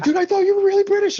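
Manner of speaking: high, quick mock disbelief; imitated surprised fan. Retold fans' surprised reaction.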